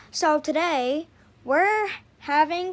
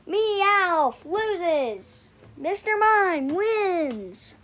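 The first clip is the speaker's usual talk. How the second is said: slow, louder victory call; booming fighting game announcer; 4 dB louder, much slower than usual. Acted. Announcing the plushie battle.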